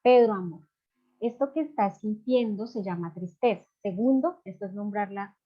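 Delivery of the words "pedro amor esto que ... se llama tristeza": put-on gentle, caring demo to a child; tender. Shown as a demonstration. Mother to a sad son, tender and loving. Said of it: "llamar a su hijo de manera cariñosa".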